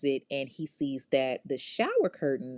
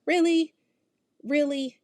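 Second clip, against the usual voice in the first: incredulous really; 11 semitones higher, 5 dB louder than usual. Real, not acted. Host scoffing at the killer's move, high incredulous outburst. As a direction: demand it twice in stunned disbelief.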